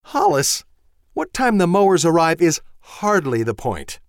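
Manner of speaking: high, loud, exasperated tirade; wife shouting, high and sharp; furious wife. Acted. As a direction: let the anger boil over at him. Voices the wife Susan.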